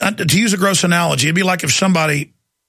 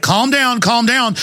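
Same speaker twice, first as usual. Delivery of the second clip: higher, mock-soothing calm down; 4 semitones higher, slower than usual. Host mocking the psyop guy, higher patronising mock-soothing. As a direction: parody a patronising official telling people to relax. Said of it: "you notice he's like".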